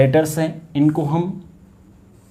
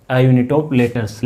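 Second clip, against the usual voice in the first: slow dictation; much slower than usual. Shown as a demonstration. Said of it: "क्या कहते हैं".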